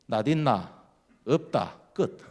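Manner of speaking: short Gyeongsang question and answer, each on its own; Gyeongsang brevity. Retold or imitated. Gyeongsang neighbours over borrowing a sickle, lightly imitated terse exchange. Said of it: "경상도가 제일 간단하답니다".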